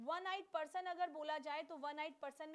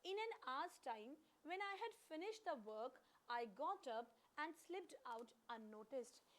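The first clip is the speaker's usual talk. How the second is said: slow dictation; 4 dB quieter, much slower than usual. Shown as a demonstration. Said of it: "तो ये sentence दिया गया है हमारे सामने".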